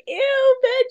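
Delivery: put-on high childish disgusted "Ew"; mock little kid grossed out by veggies; whiny kid. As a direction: squeal it like a picky kid. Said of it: "Like a kid".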